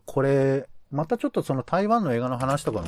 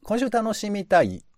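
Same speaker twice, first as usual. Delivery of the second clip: higher-pitched, lightly robotic announcer; robot-style voice; 5 semitones higher than usual. Pretend. Host opens the radio show playfully, in a robot-style voice. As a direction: read it like a mock robot host. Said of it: "ロボット風に喋ってみましたけど".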